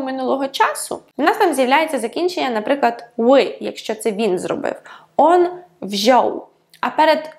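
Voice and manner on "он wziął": wziął with ą as a simple O; plain "o", no nasal. Shown as a demonstration. Teacher showing the past tense, wziął with plain O. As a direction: drop the nasal in wziął, saying pure O. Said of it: "а просто як О".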